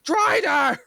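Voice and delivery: loud high-pitched shout; Alzuk. Acted. Alzuk alerting his compatriots to the Drider, loud high shout. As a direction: shout a warning across to your companions. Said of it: "Alzuk will very audibly shout".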